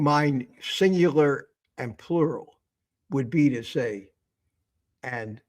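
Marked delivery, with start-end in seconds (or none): 5.0-5.4 "all y'all" drawn out Southern style; Southern drawl. Shown as a demonstration. Host demonstrates proper Southern plural greeting, drawled. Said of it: "correct Southern grammar".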